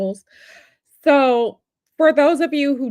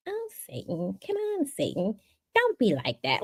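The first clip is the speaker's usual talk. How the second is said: mimicking the president; 7 dB quieter than usual. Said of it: "I have been mimicking it all weekend".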